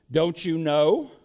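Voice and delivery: slow, rising "Don't you know?" in mild surprise; a slow lift on "know" as if amazed he doesn't know; understated surprised question. Acted. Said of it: "and he's surprised".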